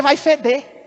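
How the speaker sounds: loud, driving preaching; pregação enfática. Real, not acted. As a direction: press on forcefully, phrase after phrase. Prega com força. (pregação forte, em voz alta)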